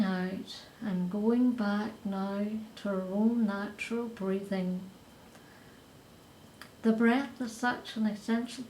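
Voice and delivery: unhurried meditation voice with long pauses; guided meditation. Acted. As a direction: guide them gently through the breath, phrase by phrase. Leads a breathing meditation.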